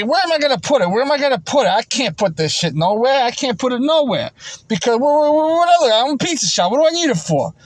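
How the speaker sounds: imitating the worker. Worker denies hiding the roll, mock indignant. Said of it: "he's gonna say".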